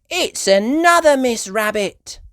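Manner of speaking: high, loud exclaim; delighted child; excited cry. Acted. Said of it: "Peppa cried".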